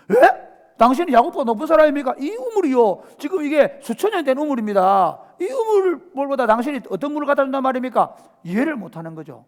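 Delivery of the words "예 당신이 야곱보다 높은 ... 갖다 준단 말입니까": 높고 큰 소리로 되묻는 여인; 믿기지 않는 듯 따지듯 되물어; incredulous woman. Acted. 수가성 여인이 반문하는 장면. (믿기지 않아 높은 목소리로 따지는 여인)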